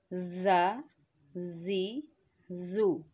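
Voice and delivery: ज़ा जी जू said firmly with a hard z; ज़ा जी जू with a firm, heavy z; firm zoe. Shown as a demonstration. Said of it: "इसको हम थोड़ा सख्ती के साथ अदा करेंगे". (ज़ा जी जू सख्ती से)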